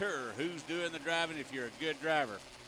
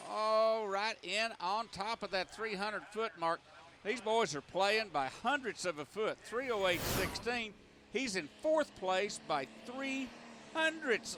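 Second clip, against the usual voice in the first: tractor pull announcer; 3 semitones higher than usual. Real, not acted. Excited call of close finish.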